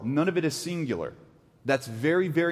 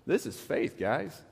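high, astonished mock exclaim that drops to a breathy hush; amazed Jesus; 3 semitones higher, 6 dB quieter than usual. Jesus marvelling at the centurion's faith, astonished then hushed. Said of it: "Jesus is freaking out. He's like".

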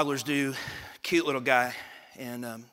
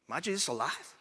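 put-on small child's question; 2 semitones higher, 6 dB quieter than usual. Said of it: "Sammy looked at me".

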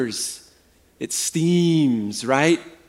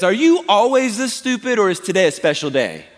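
raised-pitch mock question with amusement; sarcastic; 4 semitones higher than usual. Preacher imitating a passive-aggressive put-down, sarcastic. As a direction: deliver it as a passive-aggressive jab. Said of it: "It's the sarcastic comment that says".

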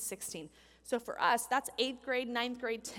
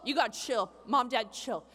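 laughing reassurance; 5 semitones lower, 4 dB louder than usual. Retold or imitated. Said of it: "She's like".

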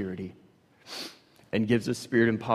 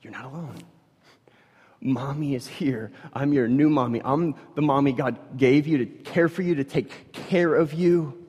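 calm, gentle soothing; mild mother's reassurance at bedside; reassuring mother. Retold or imitated. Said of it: "trying to reassure him".

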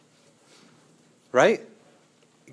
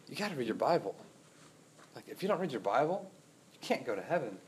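smooth legalist persuading. Acted. False teacher voiced persuading church.

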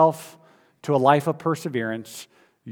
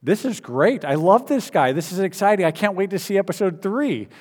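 excited; 5 semitones higher than usual. Retold or imitated. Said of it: "I'm leaving episode two thinking".

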